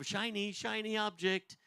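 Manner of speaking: a hint of a taunting Satan; mock Satan tempter. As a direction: dangle it like bait. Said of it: "Satan's kinda going".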